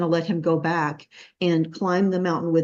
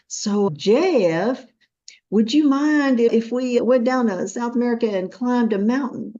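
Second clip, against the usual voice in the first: put-on drawn-out, higher Texas accent; 4 semitones higher than usual. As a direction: coax a friend in a slow Texas accent. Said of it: "slowly you tell me in your Texas accent".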